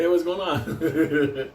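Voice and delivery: high, drawn-out hello; mock greeting. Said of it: "Saying hello, everybody".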